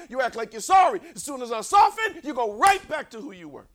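loud, rising sermon cry; full-force preaching. Acted. Preacher pleading with the church, loud and fervent. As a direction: preach it hard to the congregation.

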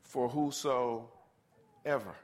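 "whosoever" drawn out slowly and low; slow, weighty whosoever. Shown as a demonstration. Preacher driving home the sacrifice to the congregation, slow and heavy. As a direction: let "for whosoever" sink in slowly. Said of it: "drawn out for emphasis".

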